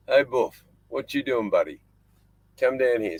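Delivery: high, bright dog-calling voice. Real, not acted. Man on his boat calling his dingo over, high coaxing call. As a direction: sing out to the dog to come.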